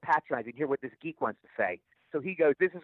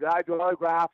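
slurred speech; 3 dB louder than usual. Retold or imitated. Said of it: "He talks kinda like that. You know, he kinda slurred his word".

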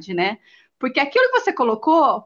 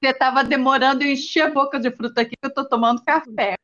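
talking with a mouth full of fruit; drooling; faster than usual. Real, not acted. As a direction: speak through a mouthful. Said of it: "Tô falando com a boca cheia". (falando de boca cheia)

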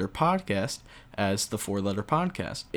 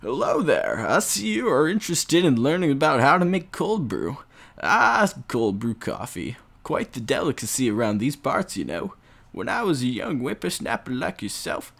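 a hint of a rambling old man; 3 semitones higher than usual. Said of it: "I talk in an old man voice".

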